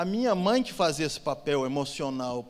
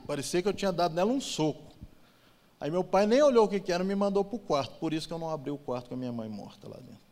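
ordinary delivery

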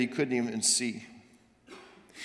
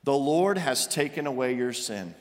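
gentle assurance; 2 semitones lower than usual. Acted. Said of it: "Nathan replies".

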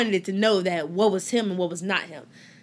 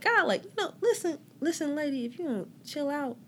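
laughing exasperation; 7 semitones higher, 4 dB quieter than usual. Retold or imitated. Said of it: "You know, like".

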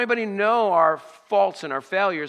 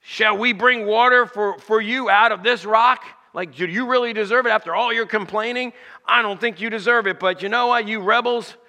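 higher, louder indignant scolding; angry Moses; 3 semitones higher, 5 dB louder than usual. Retold or imitated. Moses scolding the complaining people, angry and indignant. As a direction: let the anger rise at the ungrateful crowd. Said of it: "He gets angry".

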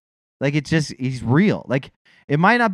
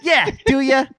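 mock reverence; 3 semitones higher, 3 dB louder, slower than usual. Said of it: "we gotta be like".

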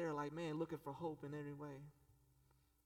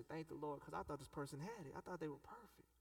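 relieved hush; 6 dB quieter than usual. Retold or imitated. Relieved confession voiced quietly.

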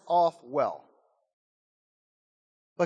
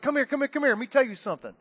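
lightly voiced parrot, raised and quick at first; beckoning parrot; 4 semitones higher, much faster than usual. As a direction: coax him closer as a parrot. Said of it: "he's like".

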